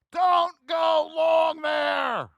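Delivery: slow, stretched-out warning yell; retold scream. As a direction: drag out the warning as if yelling it again. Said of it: "Who remembers me screaming".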